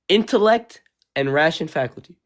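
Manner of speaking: slowed down, half-whispered reading of the definition; rereading the definition slowly after being told to slow down; 1 slow careful reread. Shown as a demonstration. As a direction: read it again slowly and under your breath, word by word. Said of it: "Go back and read it again".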